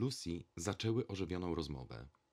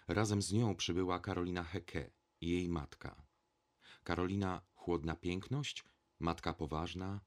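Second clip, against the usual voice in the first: plain reading voice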